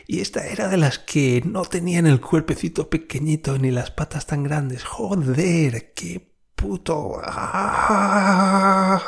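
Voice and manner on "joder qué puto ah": high, loud yelp of disgust; disgusted fright. Retold or imitated. Seeing the spider, a high disgusted cry.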